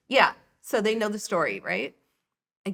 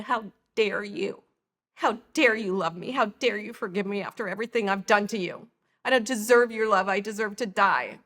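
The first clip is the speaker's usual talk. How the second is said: anguished reproach; 4 dB louder than usual. Retold or imitated. Retold father's anguished outburst on phone.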